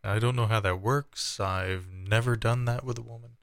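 light comedian impression; a hint of a comedian's voice, barely put on; Chris Farley. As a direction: lightly imitate a bashful comic. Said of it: "I sound like Chris Farley".

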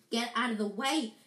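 mildly irritated snap; a short, impatient order; snapped. Acted. Ron to Peeves blocking the way, snapped. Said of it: "snapped Ron".

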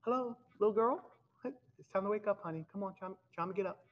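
put-on Jesus gently calling the girl to wake; cheerful wake-up call. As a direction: rouse the child with a lively coaxing voice. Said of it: "that's what Jesus did there".

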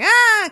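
a short high imitated cry; mock crying wail; mock kids' wail.

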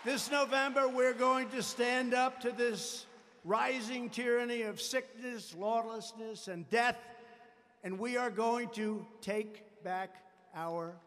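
rousing campaign speech; rally the crowd to take back the country. Acted. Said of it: "rally speech".

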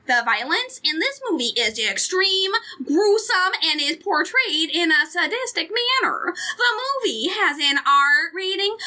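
put-on a light Minnesota accent, slowing near the end. Podcaster reads the parents' guide to co-hosts in a light Minnesota accent. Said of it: "I'm gonna read this in the Minnesota accent".

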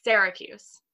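Syracuse with an open e, "Sarah-cuse"; Syracuse as locals say it. Retold or imitated. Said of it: "what do they say".

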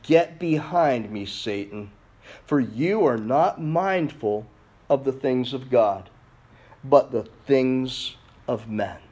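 slow, low, understated reprimand; measured rebuke. Acted. Jesus turns on Peter before his disciples, measured rebuke. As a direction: rebuke gravely, spacing out the phrases. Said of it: "he rebuked Peter".

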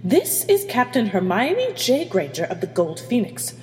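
steely, commanding captain. Acted. Captain refuses to give up her crew, steely. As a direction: lay down the law with steel. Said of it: "The steeliness in Hermione's voice".

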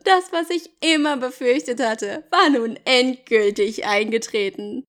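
measured audiobook reading; story narration. Acted. Jacob recounting losing Bella, story narration. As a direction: read it as Jacob's dramatic account.

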